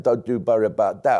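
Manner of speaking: the phrase at normal level, a mild hint of swagger; mock tough-talk take. Retelling a politician's threat, lightly mocking tough talk. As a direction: lightly ham up the tough promise. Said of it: "Well, he didn't say".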